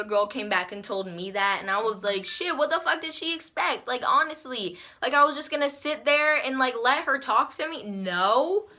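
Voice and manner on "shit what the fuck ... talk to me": higher-pitched incredulous retort; indignant. Retold or imitated. Girl hearing the other one was upset, indignant. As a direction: question it as if it were absurd.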